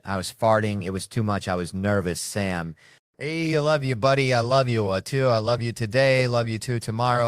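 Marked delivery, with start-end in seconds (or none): 3.2-7.3 gushing affection. Acted. Gushing declaration of love to buddy.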